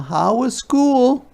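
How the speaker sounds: high, bright greeting; a mother welcoming her child; high cheerful mother; Mama greeting. Acted. Mama voiced.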